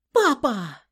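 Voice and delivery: loud, high call; alarmed cry. Acted. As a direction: cry out to her father in alarm. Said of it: "крикнула Сашка".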